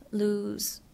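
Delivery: breathy whisper of the word; whispered echo. Acted. Whispered echo of previous line.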